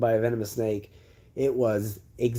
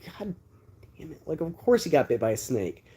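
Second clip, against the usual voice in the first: exasperated sigh; 4 semitones higher than usual. Retold or imitated. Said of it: "she was just like".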